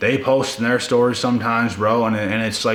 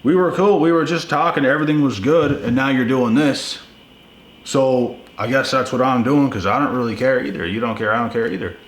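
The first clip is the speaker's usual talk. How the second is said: imitating her; 5 semitones higher than usual. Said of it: "It's like".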